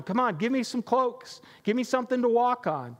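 mild mock donkey yell at the crowd; donkey scream. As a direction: demand cloaks like an ignored donkey. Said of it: "starts screaming at him in donkey talk".

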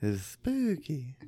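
drawn-out s like a snake. Acted. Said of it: "Sound like a snake".

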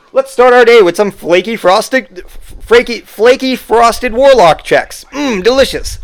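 high, bright ad announcer; cheesy commercial voice. Pretend. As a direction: sell it like a corny TV ad. Mock commercial for cereal.

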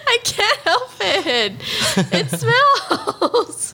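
high, drawn-out self-defence; laughing, high-pitched pleading; whiny protest. Real, not acted. Teased partner defending the habit, high whiny protest. Protesting the teasing about smells.

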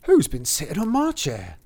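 put-on dwarf in a regional British accent. First dwarf asking about his chair, regional accent. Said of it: "have they all got regional accents".

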